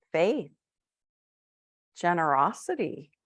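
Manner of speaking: unhurried meditation guide, with long pauses; guided meditation. Acted. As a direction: gently lead listeners inward, phrase by phrase.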